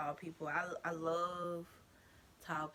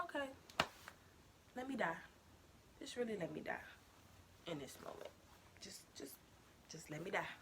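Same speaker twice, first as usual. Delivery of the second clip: mortified plea; 11 dB quieter, faster than usual. Retold or imitated. Embarrassed, wishing to die.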